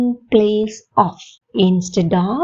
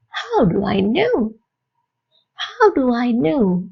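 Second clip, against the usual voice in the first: slow model question; much slower than usual. Shown as a demonstration. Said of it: "என் கூட சேர்ந்து கேட்டு பாருங்க".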